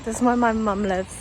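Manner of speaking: tipsy. Real, not acted. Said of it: "hiccuping 'cause I'm fucking tipsy".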